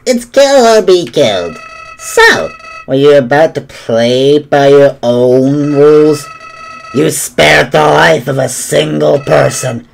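lightly voiced sneering flower; a hint of creepy Flowey; Flowey impression. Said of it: "my flowery impression".

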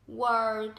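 "world" with rounded lips and an R; rounded-lip pronunciation. Shown as a demonstration. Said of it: "tròn này".

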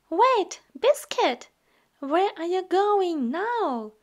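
calling out. Acted. Calling after the puppy running off.

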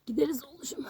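hushed and tender, barely voiced; soft whisper. Real, not acted. Owner reassuring her dog in a hushed whisper.

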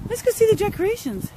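high, sing-song coaxing; dog-talk voice. Real, not acted. Owner sweet-talking her dog to the decorations, high.

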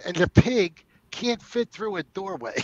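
slow, lightly voiced Italian guy; a hint of an Italian tough guy, slowly. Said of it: "and he talked like this".

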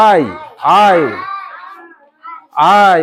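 আই held long, gliding "aa-ee". Shown as a demonstration. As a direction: project and stretch each আই for copying. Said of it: "ওইরকম উচ্চারণ কর".

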